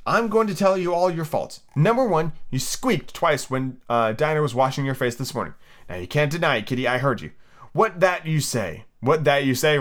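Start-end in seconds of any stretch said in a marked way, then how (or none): 0.1-7.3 lightly voiced girl, raised and scolding; Alice scolding kitty. Girl lecturing her naughty kitten, mildly raised and scolding. 7.7-8.8 slow kitten voice. Pretend. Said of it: "Pretending that the kitten was speaking".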